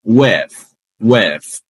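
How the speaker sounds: "With" ending in a soft voiceless TH, teeth on lip; soft TH sound. Shown as a demonstration. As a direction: end "With" on a breathy TH. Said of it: "os dois dentões encostam no lábio". ("With" com o som do TH sem voz)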